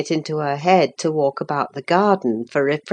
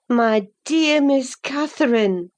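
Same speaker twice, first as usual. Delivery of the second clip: gently raised, affectionate address; a fond nurse catching her charge out; kind old nurse; 7 semitones higher than usual. Acted. Nelly confronts Catherine gently.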